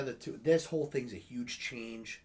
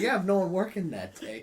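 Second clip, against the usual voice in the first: gloating quote to boss; 8 semitones higher, 9 dB louder than usual. Retold or imitated. Retold line to boss.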